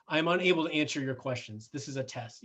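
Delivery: mildly cold, formal brush-off; cold refusal. Shown as a demonstration. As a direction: read it like a stiff rulebook, lightly. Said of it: "that's just so cold".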